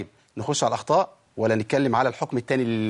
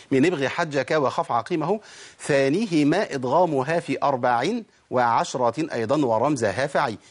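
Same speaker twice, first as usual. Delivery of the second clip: slow, measured chanted verse; verse recitation; slower than usual. Shown as a demonstration. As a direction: recite the teaching poem with drawn-out vowels.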